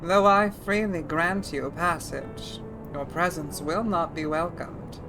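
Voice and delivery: put-on throaty older woman dragon voice. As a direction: ancient dragon speaking with rasp. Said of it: "Feeling the Odile in that dragon voice?".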